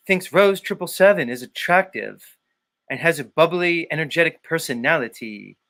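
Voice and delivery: mock host gossiping; Jason Lindgren impression. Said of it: "Maybe I could be Jason?".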